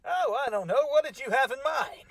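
ordinary talk

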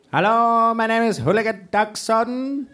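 high, stiff put-on Icelandic accent, Dalek-like; mock Icelandic Dalek voice; mock Icelandic robot voice. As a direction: play a robotic Icelander introducing herself. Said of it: "You're just like an Icelandic Dalek".

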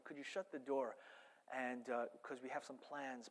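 low, soft Don giving orders; quiet mob boss. Retold or imitated. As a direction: imitate a Don speaking privately to his enforcer. Voicing the Don to his enforcer.

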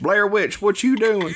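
high cackly witch voice. Pretend. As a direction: play a high, silly witch. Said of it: "my witch voice changes".

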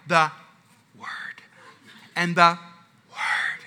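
key word dropped to a near-silent whisper; halting, whispered censorship; mouthing it. Retold or imitated. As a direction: mime the forbidden word almost soundlessly. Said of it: "like, mouthing it off".

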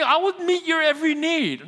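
God's voice. Acted. Preacher voices God's offer.

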